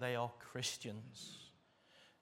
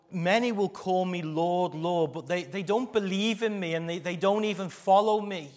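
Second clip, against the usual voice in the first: loud quoted scripture; 5 semitones higher, 9 dB louder than usual. Acted.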